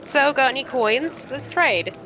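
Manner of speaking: high-pitched, drawn-out trader's pitch; eager cave trader. Acted. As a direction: play a scavenger angling for coins.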